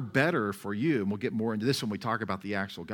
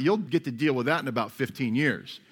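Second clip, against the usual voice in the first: usual speaking voice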